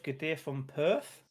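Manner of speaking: slow attempt at a Perth accent; unplaceable put-on accent. Greeting a viewer from Perth, in a wobbly put-on accent. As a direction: try a Perth accent, drawn out. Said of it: "what accent that was".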